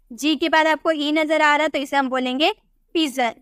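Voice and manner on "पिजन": पिजन with the G said as a J; teacher demonstrating the J sound in पिजन; soft G in पिजन. Shown as a demonstration. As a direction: say पिजन with a clear J sound in the middle. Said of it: "जॉ में pronounce करेंगे".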